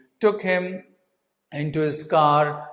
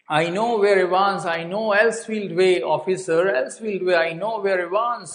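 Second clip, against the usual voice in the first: hurried, raised insisting; urgent blurting; 4 semitones higher than usual. Retold or imitated. McLeary cutting in on the governor, urgent raised insistence. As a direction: blurt it out before anyone speaks. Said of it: "he just cut through and he said".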